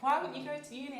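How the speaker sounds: high, loud mock parental outburst; parents yelling. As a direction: play the upset parents shouting the question. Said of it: "my parents were screaming at that".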